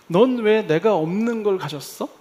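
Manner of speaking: mock angry resentment. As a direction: demand it with a touch of indignation. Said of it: "하고 화가 나는 거죠".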